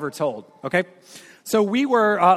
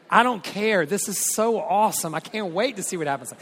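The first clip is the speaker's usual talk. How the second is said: a touch of gleeful mischief, starting higher; gleeful excitement; 3 semitones higher than usual. Retold or imitated. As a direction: relish the awkward moment, lightly eager. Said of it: "I'm like".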